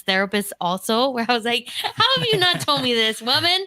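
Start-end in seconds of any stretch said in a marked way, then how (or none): 1.7-3.7 higher pitched playful indignation; mock outrage. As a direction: tease her therapist with mock shock. Mock outrage at her therapist.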